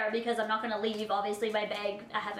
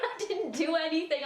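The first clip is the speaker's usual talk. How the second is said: laughing plea; 4 semitones higher than usual. Retold or imitated. Pleading to dad.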